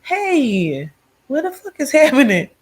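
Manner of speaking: high, loud, incredulous yell; a loud mock holler of disbelief; mock outrage. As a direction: act shocked and offended. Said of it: "I didn't hear, like".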